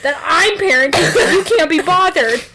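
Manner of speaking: loud, high-pitched comic rant; hammed-up domestic quarrel; mock marital outrage. Acted co-parents' quarrel over cult.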